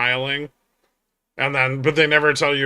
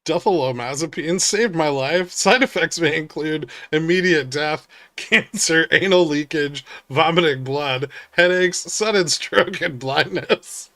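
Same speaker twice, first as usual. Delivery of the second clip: cheerful ad with eerie menace; 2 semitones higher than usual. Pretend. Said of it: "Those are pharma commercials".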